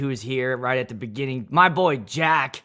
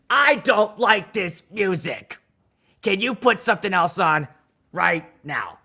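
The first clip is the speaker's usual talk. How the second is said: mock angry guest; 4 semitones higher than usual. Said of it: "that get mad".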